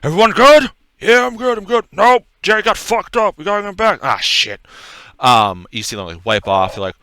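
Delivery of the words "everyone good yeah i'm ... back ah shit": high, loud, rattled soldier; frantic guard. Acted. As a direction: shout like a shaken guard after a fight. Guard voiced after wolf fight.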